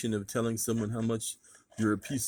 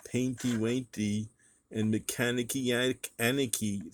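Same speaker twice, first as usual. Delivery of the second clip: put-on baby talk. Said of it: "make up words like".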